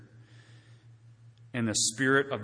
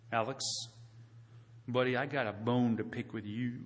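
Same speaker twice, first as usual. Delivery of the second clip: confrontational; 7 dB quieter than usual. Retold or imitated. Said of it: "Not like this".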